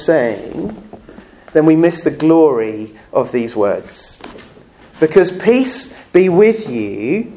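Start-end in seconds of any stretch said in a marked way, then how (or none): 5.3-7.3 "peace be with you" drawn out slowly, each word weighted; slow emphatic phrase. Shown as a demonstration. Preacher weighing Jesus' greeting for the congregation, slow and emphatic. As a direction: lean on "peace be with you" like a declaration. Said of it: "is Jesus declaring".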